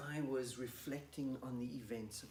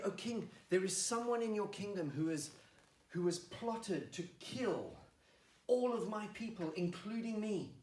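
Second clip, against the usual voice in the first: grave accusation; 5 semitones higher, 4 dB louder than usual. Acted. Queen reveals plot to king.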